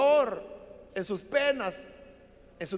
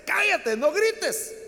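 loud, higher-pitched hushing order; mock telling-off, voice raised; acted scolding; 7 semitones higher, 5 dB louder, much slower than usual. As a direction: silence him like an annoyed crowd. Crowd silencing the shouting blind man.

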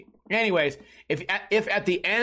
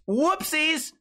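mock innocent whoopsie; 10 semitones higher than usual. Mock accident punchline.

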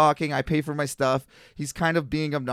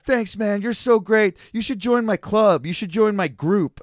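imitating the gushing drunk; 6 semitones higher, 3 dB louder than usual. Drunk stranger gushing, inviting.

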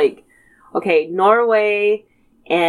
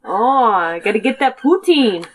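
put-on light Canadian accent. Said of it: "in the Canadian accent".

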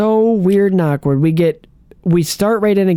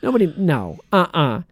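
hammed-up offended rich man; mock outrage; mock indignation; 2 semitones higher than usual. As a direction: play the spoiled master, half-joking. Mock outraged Bruce defending himself.

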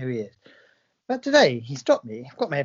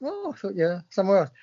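surprised oh; 2 semitones higher than usual. Retold or imitated. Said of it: "He's like".

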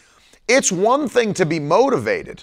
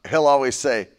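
ordinary talk, nothing marked

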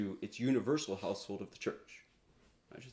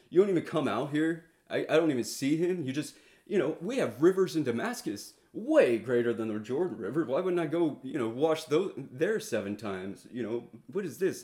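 upset Naaman; 3 semitones higher, 4 dB louder than usual. Retold or imitated. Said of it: "Naaman's kind of upset".

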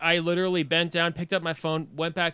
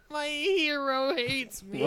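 high, slow, tearful whine; mock wailing; 10 semitones higher, 4 dB quieter, slower than usual. Fan humiliated in front of his hero, mock wailing. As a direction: wail it in hammed-up despair, half laughing.

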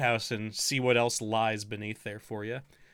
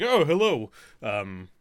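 shopkeeper greeting. Acted. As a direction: greet a customer like an eager shopkeeper.

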